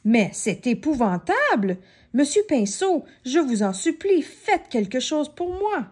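Chippy begging the painter for help; pleading panic. Acted. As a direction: beg him to fix it.

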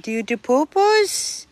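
high, cooing question to a pet. Real, not acted. Baby talk to pooping dog.

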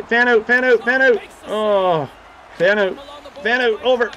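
urgent calling out. Real, not acted. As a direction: yell at the teammates to spread. Calling out to teammates.

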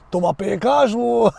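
badly faked Russian accent, breaking into laughter; failed Russian accent. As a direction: have a clumsy go at a Russian accent. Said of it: "j'arrive pas à le faire l'accent russe". (accent russe raté)

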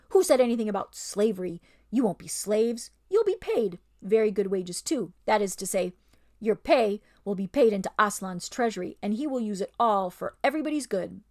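smooth over the lie; ape's bullying voice. Acted. Ape soothes the beasts with false promises.

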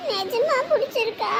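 small, soft, slow question; tearful hopeful. Acted. Child asking aunt if she truly likes them, tearful. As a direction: ask timidly, still tearful. Crying child seeks reassurance.

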